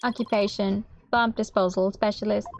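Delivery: flat, slow robotic monotone. Acted. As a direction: speak like a text-to-speech robot. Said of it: "what a strange robotic voice you have".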